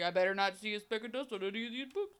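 quick, cheeky mock scolding. Giving her a dusty library, imitating cheeky warning. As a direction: rattle off a playful warning. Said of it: "they were trying to be cheeky".

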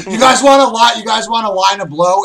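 movie dealer quote. Acted. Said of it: "quote the movie".

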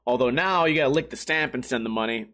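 usual speaking voice

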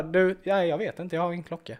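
retold unruffled answer; easy, everyday voice, softening towards the end; calm reply. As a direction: answer the shouter completely calmly. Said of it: "Helt lugnt".

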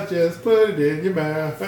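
slow put-on voice; drawn-out teasing line; mock sultry. Repeating friend's crude joke in a slow put-on voice.

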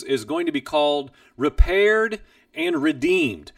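"and" leaned on between Repaired and Redeemed; stress on and. Shown as a demonstration. Preacher naming his teaching, stressing "and". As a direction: punch the word "and" in Repaired and Redeemed. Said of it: "with the big emphasis on the word and".

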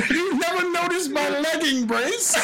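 affronted mock British gentleman accent; mock posh British accent. Chides friends over his brace, in a mock posh British accent. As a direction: act the offended British gent. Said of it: "I've talked like this my whole".

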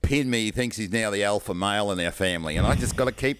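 puffing after climbing stairs; out of breath from the stairs; heavy nose breathing. Real, not acted. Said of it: "Can you stop breathing into the mic so heavy?".

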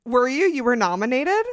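mild doubting question about the nomination; a light, teasing touch of disbelief; utter disbelief. Real, not acted. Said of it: "She says with utter disbelief".

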